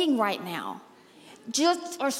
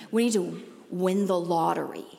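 mock eager churchgoer; 8 semitones lower, 3 dB quieter than usual. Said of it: "people say".

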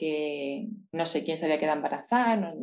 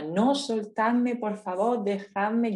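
retold shout; 4 semitones higher, much slower than usual. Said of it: "Mientras que yo gritaba".

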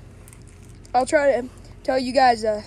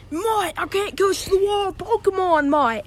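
a hint of a dopey Aussie mate; stoned guy voice; 4 semitones higher than usual. Joke teller voices the high man spotting a cat. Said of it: "and he's like".

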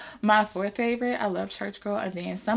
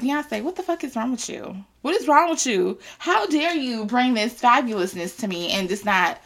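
mock outrage; 3 semitones higher, 3 dB louder than usual. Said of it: "I'm just like".

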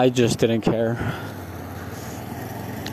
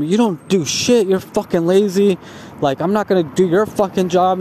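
higher-pitched imitation of a furious coworker; retold angry rant; 5 semitones higher than usual. Coworker telling off the lazy guy, higher retold rant. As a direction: tell him off, pitch pushed up.

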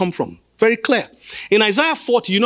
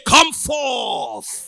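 angry shout. Acted. Preacher urging the church to call the dead forth, shouting. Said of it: "Are you angry enough to shout".

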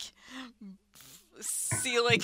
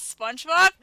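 mock Mario yell; 5 semitones higher, 8 dB louder than usual. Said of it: "doesn't it sound like he says".

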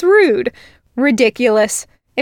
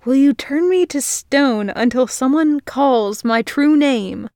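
giggling; 3 semitones higher than usual. Acted. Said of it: "she said through her giggles".

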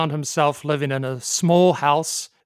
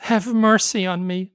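higher, begging plea; pleading; 4 semitones higher than usual. Acted. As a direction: beg for mercy. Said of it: "Ah Fu pleaded".

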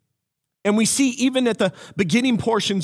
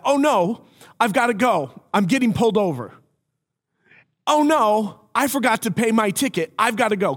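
fake panic; 4 semitones higher than usual. Faked panic on prank call.

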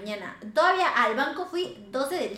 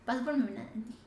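ordinary delivery

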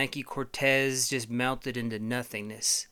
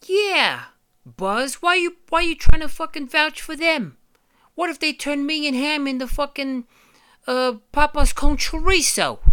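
very high, loud whining toy voice; panicky toy; 14 semitones higher, 11 dB louder than usual. Acted. Toy yelling at Buzz for vouching, very high and loud. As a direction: freak out like a shrill sidekick. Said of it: "another toy protests".

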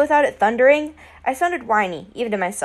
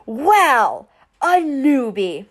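mock yell of a bully; husky yell; 4 dB louder, much slower than usual. A narrator's reading. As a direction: call out the newcomer loudly. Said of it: "a husky voice yelled".

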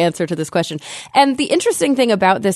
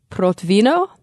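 badly faked Russian accent; terrible Russian accent; 3 semitones higher than usual. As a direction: attempt the town's name in a clumsy Russian accent. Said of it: "my terrible Russian accent".

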